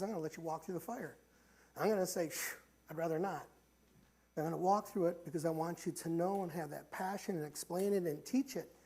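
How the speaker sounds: soft, hushed voice of God; God speaking softly. Retold or imitated. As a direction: speak as God, gently and low. Preacher voicing God's words.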